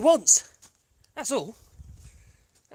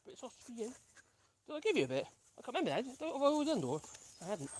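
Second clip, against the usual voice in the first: hushed; 2 semitones higher, 13 dB quieter, much faster than usual. Real, not acted. Quiet while people pass.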